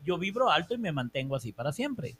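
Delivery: affirmation. Shown as a demonstration. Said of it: "repítete".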